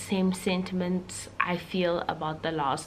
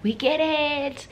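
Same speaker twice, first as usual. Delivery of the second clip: exasperated; 9 semitones higher, 5 dB louder, slower than usual. Retold or imitated. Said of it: "people are like".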